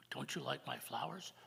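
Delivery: gentle story narration, often hushed; storytelling. Acted. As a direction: tell the legend to the congregation. Tells Native American creation story.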